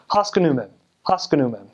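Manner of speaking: Haskanumem with the second syllable skipped over as "uh"; bad American accent. Shown as a demonstration. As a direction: bounce over the second vowel: "HAS-kuh-noo-mem". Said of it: "a bad accent would be like".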